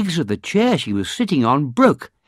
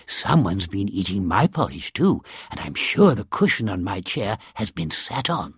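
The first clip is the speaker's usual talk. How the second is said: a touch softer mama bear; soft growly voice; 4 semitones lower, 3 dB quieter than usual. Acted. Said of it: "she said in her soft, growly, middle-sized voice".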